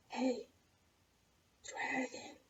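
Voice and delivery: soft breathy whisper. Acted. Elizabeth whispers softly to the sleeping dragon. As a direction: barely breathe the words. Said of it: "Elizabeth whispered very softly".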